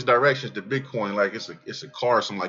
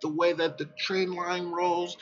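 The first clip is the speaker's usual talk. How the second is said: a hint of a nerdy chart reader; mock chart guy; 8 semitones higher, 4 dB quieter than usual. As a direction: lightly imitate a bland analyst explaining trend lines. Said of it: "they're kinda like".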